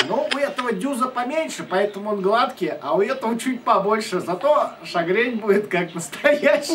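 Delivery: ordinary talk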